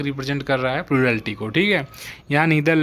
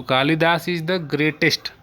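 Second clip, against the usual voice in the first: slow example sentence; 2 semitones higher, much slower than usual. Shown as a demonstration. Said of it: "slow example sentence".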